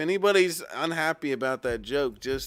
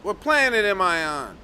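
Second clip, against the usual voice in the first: exasperated; 5 semitones higher, 7 dB louder than usual. Acted. Streamer rants about donation goal.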